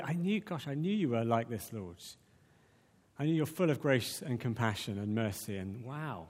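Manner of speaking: awed, hushed delight; wonder and joy. Shown as a demonstration. Preacher voicing Jonah's prayer in wonder and joy. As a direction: marvel at God's goodness, softening to a breath. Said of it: "You can read it in wonder and joy".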